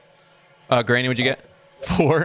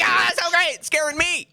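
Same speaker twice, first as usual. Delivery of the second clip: mock scared delight.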